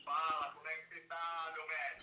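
on speakerphone. Real, not acted. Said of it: "Deixa eu pôr aqui no Viva Voz".

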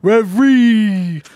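"Every" dragged slowly, high and loud after the R; stress after the R. Shown as a demonstration. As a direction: lean hard on the end of "Every". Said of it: "You're putting the emphasis after the R".

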